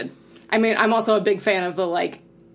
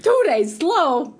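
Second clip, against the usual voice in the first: mock Hatter echo; 8 semitones higher, 3 dB louder, much slower than usual. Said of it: "echoing the Hatter line".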